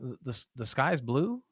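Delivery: hesitant, trailing unsure; soft, hesitant sky is blue. Shown as a demonstration. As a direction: say it like you doubt it. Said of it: "if I said it like that".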